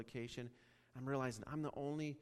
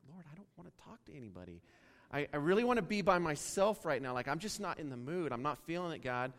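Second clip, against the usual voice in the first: reluctant whiny prayer; 2 semitones higher, 6 dB louder than usual. Retold or imitated. Reluctant complaint to God on plane.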